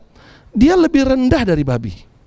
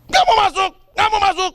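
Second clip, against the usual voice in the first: sulking refusal; 9 semitones higher than usual. Retold or imitated. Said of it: "dia marah".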